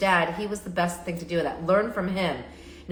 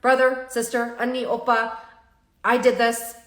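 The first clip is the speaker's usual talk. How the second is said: higher and louder, pleading to the family; earnest confession; 3 semitones higher, 4 dB louder than usual. Shown as a demonstration. Child confessing money loss to family, a pleading confession. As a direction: open up to mom and dad, upset and honest. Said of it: "you're literally facing them saying".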